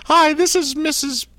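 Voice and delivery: put-on very high, slow, heavy Slovenian-style accent; Melania Trump impression. Host pretending to be Mrs Trump calling in, thick accent. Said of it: "you have a much stronger accent there".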